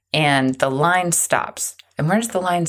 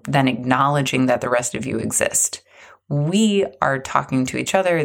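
sneering hushed mockery of the bosses; mocking whisper. Voicing the aloof executives, mocking whisper. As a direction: whisper it with contempt.

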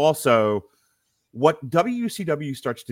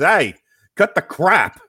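loud, higher tough-guy wrestler voice with a put-on accent; hammed-up Razor Ramon impression, loud and high; 5 semitones higher, 7 dB louder than usual. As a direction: bark it like Razor Ramon cutting off a match. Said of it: "in the Razor voice".

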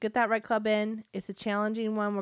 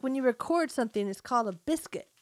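lightly imitated fifties radio patter, quick; a quick hint of an old-time radio host; fifties radio guy; 4 semitones higher, faster than usual. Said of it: "like, fifties radio guy".

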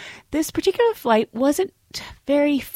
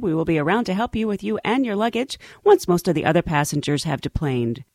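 flight attendant announcement; faster than usual. Acted. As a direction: read it like an airline announcement. Cabin announcement parody.

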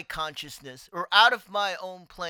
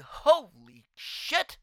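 slow stunned curse; much slower than usual. Retold or imitated. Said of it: "I'll say it like that".

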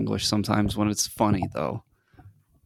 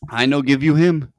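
higher-pitched imitated Dominican accent; Dominican coworker; 4 semitones higher, 3 dB louder than usual. Quoting the Dominican guy from work, mock Dominican accent. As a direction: mimic Dominican broken English, pitched up. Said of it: "this is how he talks".

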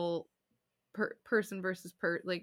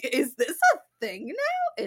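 higher, louder, slow question; retold surprise; 6 semitones higher, 7 dB louder, slower than usual. Owner realizing her cat now responds, surprised. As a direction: ask in amused disbelief. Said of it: "And I was like".

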